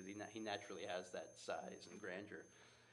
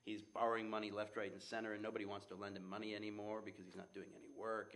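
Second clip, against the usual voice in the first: ordinary talk, nothing marked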